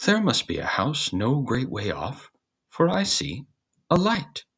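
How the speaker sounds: a lightly voiced rooster calling out his find; building excitement, ending high and loud; excited rooster. The cock spots a light.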